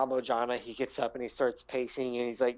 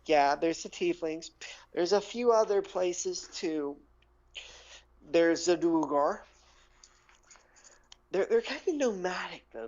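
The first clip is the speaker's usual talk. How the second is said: high-pitched, animated gnome storyteller; 5 semitones higher, slower than usual. Acted. Gnome telling adventurers about underground neighbours, animated high voice. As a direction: pitch it high and draw out the boasts. Plays a gnome describing the tribes.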